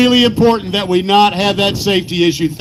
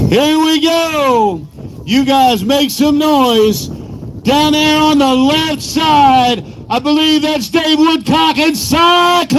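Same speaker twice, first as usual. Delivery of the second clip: slow drawn-out PA announcing; arena announcer; 3 semitones higher, slower than usual. Real, not acted. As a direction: call it out to the stands. Announcer introducing trucks.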